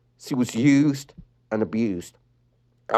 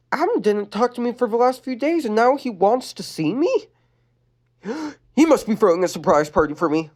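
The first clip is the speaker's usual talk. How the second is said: Lenny voice; 10 semitones higher than usual. Acted. Lenny thinking.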